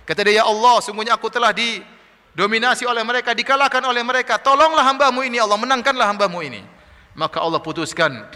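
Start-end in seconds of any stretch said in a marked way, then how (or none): 0.4-6.6 raised-voice plea to God; pleading prayer. Acted. Overpowered Noah begs Allah for victory, praying. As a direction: plead for help, voice lifted. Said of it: "Maka Nabi Nuh berdoa".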